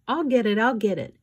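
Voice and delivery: high, loud eager cry. Acted. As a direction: call out eagerly, rushing for the phone. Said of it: "Esme cried".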